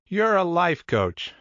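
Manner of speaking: audibly smiling, drawn-out reveal; with a smile. Acted. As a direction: deliver the guess as a happy discovery. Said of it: "said Vince with a smile".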